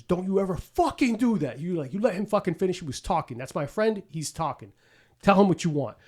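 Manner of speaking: lightly voiced mobster scolding the waiter; imitating Penguin's threat. The Penguin scolds the waiter for interrupting the kid, mock angry. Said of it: "And the Penguin says".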